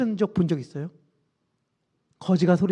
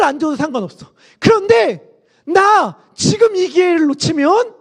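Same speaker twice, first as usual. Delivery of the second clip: desperate crying out; 5 semitones higher, 3 dB louder than usual. Acted. Blind Bartimaeus begs Jesus to come to him, crying out. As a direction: build from resolve to calling out in high bursts. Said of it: "바디메오가 막 소리를 지르기 시작합니다".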